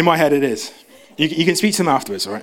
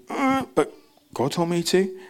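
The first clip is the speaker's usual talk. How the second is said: high hesitant squeak, then softer; timid excuse; 4 semitones higher, 4 dB quieter than usual. Retold or imitated. Moses answering the doubter, high and timid. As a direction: falter like a caught child.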